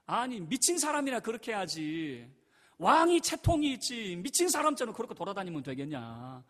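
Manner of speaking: snapping back. Retold or imitated. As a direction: scold him like a wife fed up with his dancing. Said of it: "이런 식으로 쏘아붙이고". (쏘아붙이는 아내, 가운데서 높고 크게)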